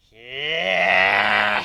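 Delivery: loud, eager yes; enthusiastic. Acted. Griffin answers Luna before diving in, enthusiastic. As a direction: throw everything into an excited yes. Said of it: "with much enthusiasm as I can".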